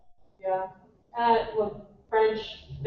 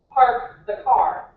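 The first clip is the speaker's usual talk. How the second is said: Boston accent, slow; 5 dB louder, much slower than usual. Shown as a demonstration. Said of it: "they don't pronounce their R's".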